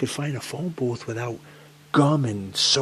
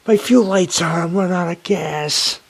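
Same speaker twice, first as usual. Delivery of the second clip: high, loud alarmed telling; reliving the fuel light panic; panicked; 8 semitones higher, 8 dB louder than usual. Real, not acted. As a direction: blurt it in rising panic. Panic over empty tank.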